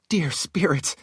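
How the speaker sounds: breathless whispered relief; relieved whisper. Acted. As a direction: whisper it like a prayer of thanks. Shale relieved on seeing him.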